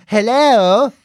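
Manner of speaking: mum's polite phone hello. Retold or imitated. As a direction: answer like a totally different person. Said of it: "Totally different human being".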